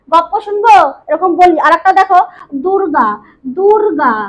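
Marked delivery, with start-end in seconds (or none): 0.1-0.3 গপ্প said as goppo with a long pp; colloquial pronunciation. Shown as a demonstration. Teacher to students, the everyday way: goppo. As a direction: say গপ্প, doubled p and no l. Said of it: "আমরা বলি না".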